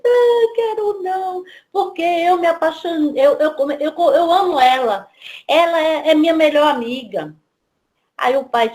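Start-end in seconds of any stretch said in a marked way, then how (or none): 0.0-7.4 put-on pleading little girl. Daughter pleads in child voice.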